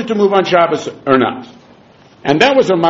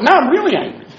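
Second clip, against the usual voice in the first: higher, half-laughing mock fury as the Rebbe; the Rebbe fakes fury at his students, mock angry; mock anger; 8 semitones higher than usual. The Rebbe protests to his students, laughing mock anger. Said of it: "I'm the Rebbe over here".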